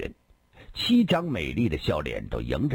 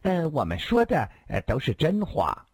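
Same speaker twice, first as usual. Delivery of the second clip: put-on coquettish young women; 8 semitones higher than usual. Girls protest they mean it.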